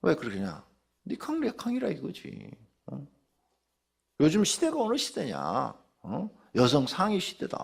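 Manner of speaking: mild mock scolding with challenging questions; scornful wife. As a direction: imitate a wife talking down to her husband. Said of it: "남자를 무시하고 막 종 취급을 하고".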